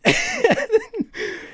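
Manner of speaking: a burst of high giggling; high-pitched real laugh; high giggle. Real, not acted. Laughs remembering the pond.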